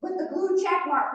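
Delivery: lightly hammed-up excitement; mock excitement. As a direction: imitate someone thrilled to be noticed. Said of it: "people get excited when".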